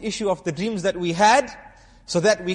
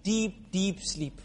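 drawn-out sleepy; 8 dB quieter, much slower than usual. Acted. Describing a deep sleep.

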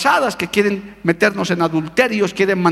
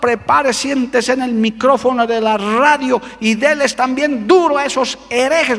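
imitating an agitated brother, higher pitched; urging to battle; 4 semitones higher than usual. Church brother pushing the pastor to hit back at heretics, urgent. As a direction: egg the pastor on, mock-urgent. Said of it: "me estaba impulsando a la guerra".

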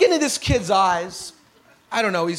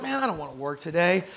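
groggy Monday groan; 4 semitones lower, 7 dB quieter, faster than usual. Retold or imitated. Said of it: "you're like".

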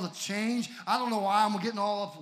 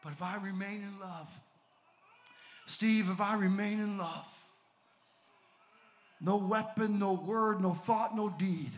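hushed declaration. Acted. Quiet declaration of faith.

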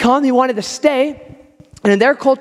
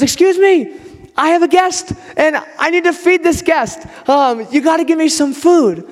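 acted higher-pitched plea at a friend's door; calling out at door; 5 semitones higher than usual. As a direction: imitate an insistent midnight caller, pitched up. Midnight caller at friend's door.

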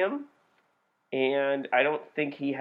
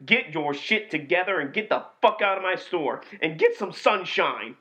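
quoting the angry manager; 4 semitones higher than usual. Acted. Quote war, playing the manager throwing someone out. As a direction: rant like the fed-up store manager. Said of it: "I'm gonna quote the movie".

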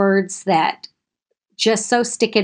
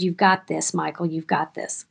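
softer, quiet reassurance; gentle encouragement; 3 semitones lower, 5 dB quieter than usual. Retold or imitated. Kids comforting a classmate, soft reassuring voice. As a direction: pat him on the back with your voice. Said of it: "and said".

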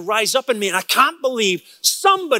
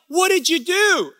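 much higher, incredulous outburst; indignant disbelief; 10 semitones higher than usual. Retold or imitated. Preacher retelling his disbelief at a friend who just watched.

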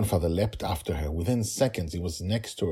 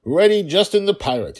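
put-on child voice; 11 semitones higher, 8 dB louder than usual. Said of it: "he said".

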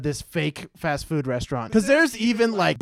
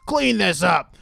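slow snooty boss voice; 3 semitones higher, slower than usual. Retold or imitated. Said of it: "and he's like".

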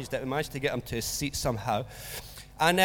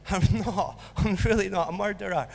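laughing denial; 3 semitones higher than usual. Retold or imitated. Laughing through his protest.

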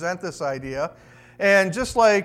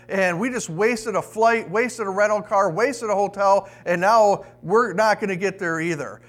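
mildly worked-up mock complaint, a bit raised; retold yelling; 2 semitones higher than usual. Second passenger joins in blaming the driver for the lost bonus, mild mock yelling. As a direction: act out a passenger griping, short of a real yell. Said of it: "he's yelling now too".

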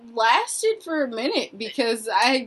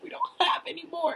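apologetic staffer; 5 semitones higher, 12 dB quieter, faster than usual. Retold or imitated. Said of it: "And she's like".

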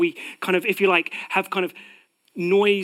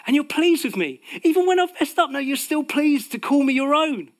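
fervent prayer; 8 semitones higher, 3 dB louder than usual. Acted. Prayer rising in fervour.

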